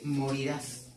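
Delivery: "morirás" said slowly, accent on the last A; stress on final syllable of morirás. Shown as a demonstration. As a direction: land the stress on the -RÁS of "morirás". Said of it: "Aquí hay un acento, hermanos, en morirás".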